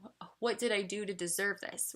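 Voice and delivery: hushed retold despair after a small gasp; quiet mock-panicked gasp, then dejected; sad, self-pitying. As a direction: softly mimic feeling down on yourself. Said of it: "I'd get sad and I'd get down on myself".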